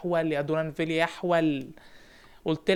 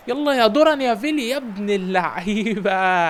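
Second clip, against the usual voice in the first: louder, slower praise; excited cheer; 2 semitones higher, 5 dB louder, slower than usual. Real, not acted. Coach cheers his winger's goal, louder and slower. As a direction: cheer the name as he scores.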